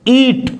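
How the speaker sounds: long, held ee in "eat"; long vowel. Shown as a demonstration. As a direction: stretch the ee that opens "eat". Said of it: "ये long sound". ("eat" में लंबी ई)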